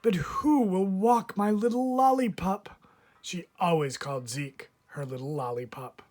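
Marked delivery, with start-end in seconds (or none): 0.0-2.8 put-on high, louder, fussy old lady voice; lightly voiced anxious neighbor; fretting old lady. A narrator's reading. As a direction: worry over her little dog. Mrs Teaberry voiced, fretting.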